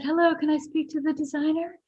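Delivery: put-on whispery high voice. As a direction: imitate a hushed, high-pitched lady caller. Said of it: "like, whispery voice".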